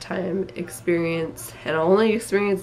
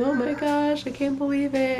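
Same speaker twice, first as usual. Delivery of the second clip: emotional; 8 semitones higher than usual. Real, not acted. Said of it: "sorry, I'm getting emotional".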